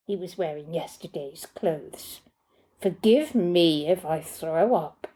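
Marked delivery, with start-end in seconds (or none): 2.8-5.1 mocking sarcasm. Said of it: "Oh, my bleeding heart".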